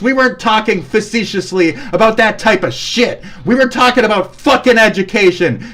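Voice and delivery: irritated, insulting tirade; real, heated exasperation; angry scolding. Real, not acted. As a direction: tear into an opponent. Insulting an online opponent.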